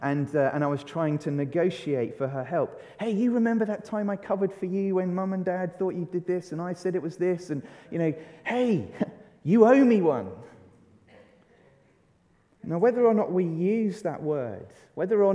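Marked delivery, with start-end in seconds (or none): 3.0-10.3 wheedling sister-bargaining voice, ending in a laugh; mock-cheeky "you owe me one" with a laugh; pleading kid sibling. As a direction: coax your sister into owing you. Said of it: "I certainly used that phrase a lot with my sister".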